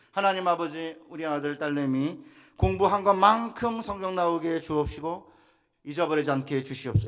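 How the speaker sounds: retold family prayer. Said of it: "이렇게 기도했어요".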